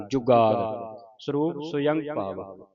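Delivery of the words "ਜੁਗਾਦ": slow ਜੁਗਾਦ with a held, doubled consonant. Shown as a demonstration. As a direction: lean on the adhak in ਜੁਗਾਦ. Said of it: "ਜੁਗਾਦ ਅਦਕ ਲਾ ਕੇ". (ਜੁਗਾਦ ਅੱਧਕ ਲਾ ਕੇ)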